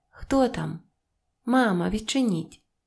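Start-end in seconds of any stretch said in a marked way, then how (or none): none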